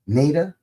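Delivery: long "ay" in the first syllable of "Nada"; long-A pronunciation. Shown as a demonstration. Quoting how the film says the character's name, "Nada" as NAY-duh. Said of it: "I hear that character's name pronounced".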